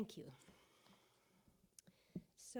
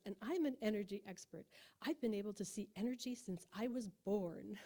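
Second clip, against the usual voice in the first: loosely attempted British accent; Prune Harris. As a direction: imitate a British energy expert, accent only half there. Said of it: "I can't do a British accent".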